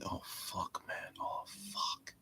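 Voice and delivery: whispered curse under breath; muttered whisper. Real, not acted. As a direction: hiss it so nobody hears. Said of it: "whispered curse".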